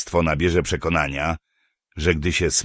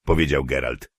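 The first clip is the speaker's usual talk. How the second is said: usual speaking voice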